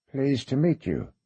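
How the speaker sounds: put-on a light British accent, slow and polite; vaguely British accent. A narrator's reading. Gypsy son greeting the visitors, a light British accent. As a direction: greet them with a faint British polish. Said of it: "with a vaguely British accent".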